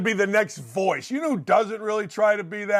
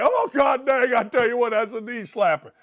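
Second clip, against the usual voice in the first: hammed-up guffaw; 4 semitones higher than usual. Mock reaction to a trivial joke.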